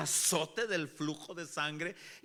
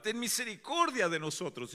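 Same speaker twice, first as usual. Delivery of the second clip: higher-pitched plea, not fully shouted; mild imitated cry; 6 semitones higher than usual. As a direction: briefly echo the blind men's cry. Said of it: "Así los ciegos gritaban". (clamor imitado, a media voz)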